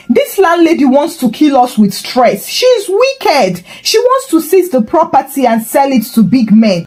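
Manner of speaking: high shrill accusing shout. Acted. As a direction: yell it out like a market woman. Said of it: "her frying pan voice shouting".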